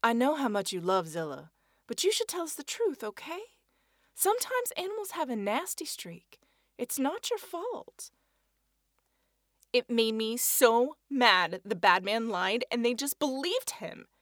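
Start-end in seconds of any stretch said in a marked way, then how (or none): 0.0-8.1 serious. A narrator's reading. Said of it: "she said seriously".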